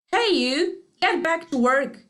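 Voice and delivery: loud, high bossy yell; gruff boss yelling at a worker; foreman shouting. Acted. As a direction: bark the order at the bear.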